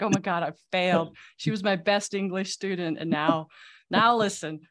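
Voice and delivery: mock heartbroken teacher; voicing the teacher sighing over his former best English student; disappointed teacher.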